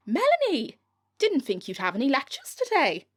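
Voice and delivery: line jumps up high on the name; high-pitched. Acted. Reading Melanie's line, accidentally high-pitched. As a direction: went a bit high-pitched on the dialogue. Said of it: "I went a bit high-pitched then".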